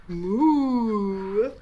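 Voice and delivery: long drawn-out moo; playful sustained cow call. Pretend. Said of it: "I'm a cow".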